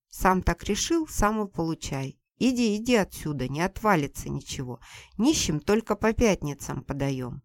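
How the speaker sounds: put-on loud, scornful old woman chasing a man off; angry mother-in-law. Mother-in-law yells at Seryozha to get out, loud and scornful. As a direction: bark him out of the yard like a furious mother-in-law. Mother mocks and refuses him.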